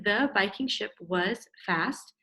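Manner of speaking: The Viking ship was fast, slow and word by word; slow sounding-out read. Shown as a demonstration. Teacher reading the child's kid writing back, slowly. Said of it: "Your kid writing".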